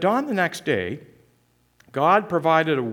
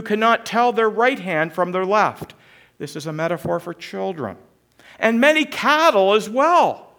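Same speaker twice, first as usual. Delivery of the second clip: raised, weighty voice of God rebuking; commanding voice of God; 7 semitones higher, 4 dB louder than usual. Acted. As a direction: speak as God setting the prophet straight. God's reply read with force.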